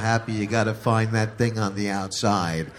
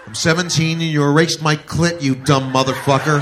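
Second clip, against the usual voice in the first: mock angry rant; 3 semitones higher, 6 dB louder than usual. Girl voiced berating him.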